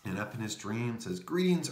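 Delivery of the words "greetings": alien greeting. Acted. Alien greets earthlings in dream.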